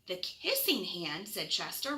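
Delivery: gentle bedtime storybook reading; reading to children. Acted. Reads picture book to children.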